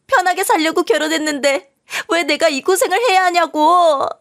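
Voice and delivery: high, wailing tearful complaint; crying out. Acted. New wife collapsing in the hospital, crying at her husband. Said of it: "소리를 지르며 ... 울기 시작했고".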